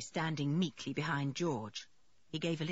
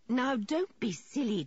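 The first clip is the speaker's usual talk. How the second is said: brisk motherly reproof; 6 semitones higher, 3 dB louder than usual. A narrator's reading. Mother gently scolds upset George.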